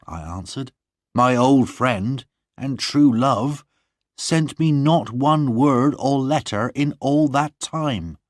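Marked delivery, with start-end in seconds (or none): 1.1-8.2 gently reproaching his love; John reproachful. Acted.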